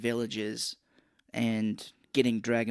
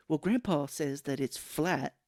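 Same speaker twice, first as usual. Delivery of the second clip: put-on clueless kid. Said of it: "that's how your kids sound".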